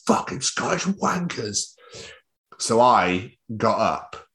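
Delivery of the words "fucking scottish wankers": high, slow mock-furious cursing; fan going mental. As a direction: imitate a sore loser dragging out insults. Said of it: "It's like, going mental".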